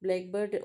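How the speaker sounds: "blackbird" as one word, stress on black; "blackbird" run together, black leading; compound stress. Shown as a demonstration. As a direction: say "blackbird" as a species name, front-stressed. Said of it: "when you speak about a species".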